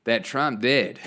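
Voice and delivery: lightly put-on accent with swooping pitch; slightly hammed-up politician's accent; Kamala Harris accent. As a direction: quote her in a mildly exaggerated mock accent, breaking into a laugh. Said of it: "I don't know why I gave her that accent".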